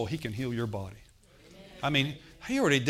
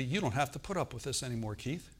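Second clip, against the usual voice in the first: quiet inner voice; 6 dB quieter than usual. Retold or imitated. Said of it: "this thought came to me".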